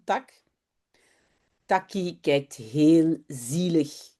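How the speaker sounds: put-on storybook reading for young learners, clear and paced; reading to children. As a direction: read the story like a teacher to a class. Reads Dutch children's story aloud.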